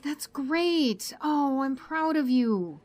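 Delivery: delighted praise. Acted. Proud of Jane for being ready, delighted. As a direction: lift the pitch with proud delight.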